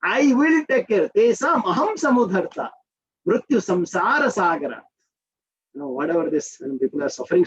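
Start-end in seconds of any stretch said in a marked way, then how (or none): 0.0-4.8 Lord's promise. Retold or imitated. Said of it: "Lord is giving that promise".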